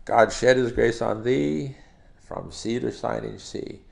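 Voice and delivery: measured verse, pausing between lines; rhythmic recitation. Shown as a demonstration. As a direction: recite it to the beat, drawing out each phrase. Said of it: "gives you a feel for the rhythm".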